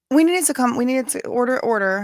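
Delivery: put-on a touch of a Cajun accent calling the meeting; lightly put-on bayou Cajun voice. Calling the cousins' meeting to order, light Cajun accent. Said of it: "Good little accent".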